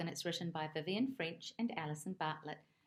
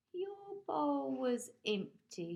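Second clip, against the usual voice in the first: bird voice; 7 semitones higher, slower than usual. Acted. Green Bird voiced by narrator.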